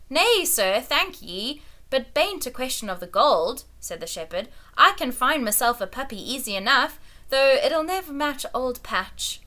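put-on a touch of a rustic old shepherd; humble old shepherd pleading his case; old country shepherd. Old shepherd pleading before the king, lightly rustic.

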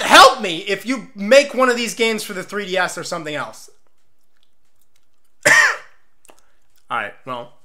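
talking with gum in mouth; words around a wad of gum; chewing gum. Real, not acted. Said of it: "I had gum in my mouth this whole time".

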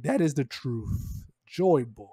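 low, drawn-out solemn declaration; grave pronouncement. Retold or imitated. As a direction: deliver it slowly like a solemn revelation. Voicing Vegapunk's grave broadcast message.

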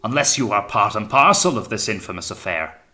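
loud, suspicious accusation; sudden suspicious fear. A narrator's reading. Captain suspecting Bush is in the plot, fearful and loud. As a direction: let suspicion burst out loudly. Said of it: "one of sudden suspicious fear".

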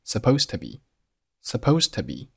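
"supposed to be" with the final d unreleased, to be weak; swallowed d in "supposed". Shown as a demonstration. Teacher shows lost plosion, "supposed to be" without a released d. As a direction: swallow the end of "supposed", run into "to be". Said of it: "但是把声音给吞掉".

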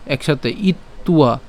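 ইত্বা said as one smooth word; joined syllables. Shown as a demonstration. Teacher joins the word into one, smooth. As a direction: run ইত্বা together. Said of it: "আলাদা করে বললে ইত উয়া".

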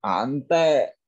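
drawn-out second syllable; slow pronunciation model. Shown as a demonstration. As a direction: stretch the word out for learners. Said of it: "tiếng Nhật là". (đọc mẫu kéo dài)

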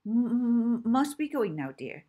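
put-on flustered old lady farewell. Old lady stammers goodbye.

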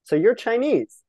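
lightly voiced curious older lady; imitating the lady on the bus; mock nosy lady. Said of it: "She's like".

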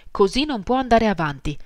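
exasperated cry. Acted. Marie to drunken Pierre at breakfast, an exasperated cry. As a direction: let it burst out, fed up. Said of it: "gridò Marie una mattina esasperata".

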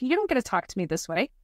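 hammed-up threat to a rude man; retold angry outburst. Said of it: "ready to give him a piece of my mind".

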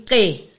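"Ke" begun with a Khoi click; click sound. Shown as a demonstration. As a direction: click the tongue into the start of "Ke". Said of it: "It's a click".

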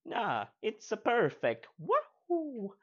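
very high, loud game-hero voice; high, slow cartoon plumber impression; Mario. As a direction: stretch it out into a high, gleeful whoop. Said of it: "a cameo by the original Mario".

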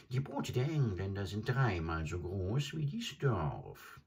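high croaking bird voice, boasting; a stork showing off his travels; high croaking bird, bragging; boasting adjutant bird. Acted.

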